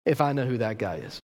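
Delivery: drawn-out oath that sinks; slow, grave self-curse; curse on himself. Acted. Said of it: "he's ultimately basically saying this".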